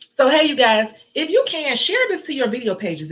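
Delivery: loud, high call to viewers; rally the audience; excited. Real, not acted. Host urging viewers to share stream, loud and high.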